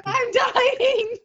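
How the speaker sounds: wheezing with laughter; laughing. Real, not acted. Friend dying of laughter at the Aussie joke. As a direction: squeeze it out between laughs.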